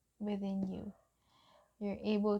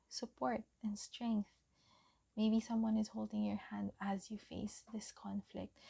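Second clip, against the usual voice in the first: gentle encouraging whisper; soft whisper; 4 dB quieter than usual. Acted. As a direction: breathe the words softly to the viewer. Tender encouragement in tarot reading.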